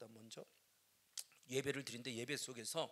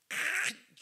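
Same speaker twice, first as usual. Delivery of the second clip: dramatic high; 11 semitones higher, 9 dB louder, much slower than usual. Real, not acted. Dramatic emphasis.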